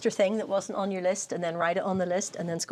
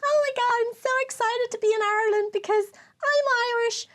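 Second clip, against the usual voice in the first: gushing singer; 13 semitones higher than usual. Retold or imitated. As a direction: squeal it like a thrilled pop star. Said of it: "She goes".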